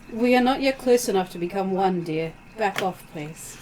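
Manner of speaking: lightly voiced gentle therapist; therapy voice. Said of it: "in the therapy voice".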